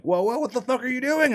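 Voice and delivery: very high, loud alarmed yelp; alarmed protest. Retold or imitated. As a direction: stop a friend in panic. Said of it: "everybody else ... are like".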